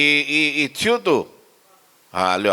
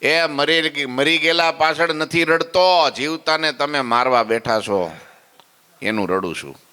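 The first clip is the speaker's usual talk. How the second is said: a mild, slowed reproach, pitched up; glaring rebuke; 3 semitones higher than usual. Retold or imitated. Sura Bapu rebukes Maharaj for driving family out, mildly angry. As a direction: scold him with a glare in the voice. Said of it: "ડોળા કાઢીને".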